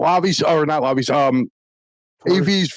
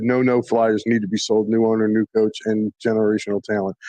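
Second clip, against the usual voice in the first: mock Braves fan; 7 semitones lower than usual. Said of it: "He said".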